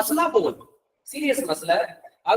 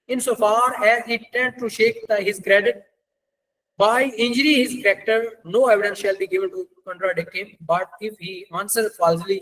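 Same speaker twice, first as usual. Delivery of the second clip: deliberate, measured legal recitation; slow statute reading; much slower than usual. Acted. Lecturer reads section 48 to law students, slow and deliberate. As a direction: read the law out slowly, word by word.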